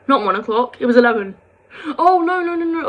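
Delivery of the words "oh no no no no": flustered self-correction. Real, not acted. Correcting own mistake mid-story.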